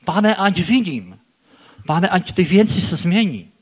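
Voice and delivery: earnest plea. Acted. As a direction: beg the Lord sincerely. Praying plea to God.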